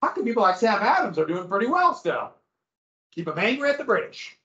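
high, puzzled colonist asking a question; skeptical colonist. Retold or imitated. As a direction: raise a doubt as a poor colonist. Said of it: "and not going like".

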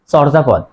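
চর্যাপদ said "chawrjapod"; common mispronunciation. Shown as a demonstration. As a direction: open aw in first syllable of চর্যাপদ. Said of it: "অনেকেই বলে".

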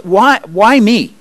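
high, drawn-out "why me"; incredulous protest. Acted. Gideon objects to God choosing him, protesting. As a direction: plead against being chosen, slowly.

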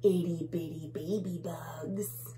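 slow, loud mock menace; bully bug. Bully bug boasting to tiny bugs, mildly menacing. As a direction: stretch out the threat. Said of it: "He says".

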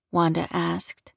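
usual speaking voice

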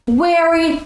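"wary" said with a W for very; Russian learner's W for V; W in place of V. Shown as a demonstration. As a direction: swap the V in "wary" for a W. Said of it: "instead of".

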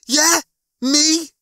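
high, loud startled questions; anxious disbelief. A narrator's reading. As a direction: ask in alarm, dreading the answer. Lister learns it was him.

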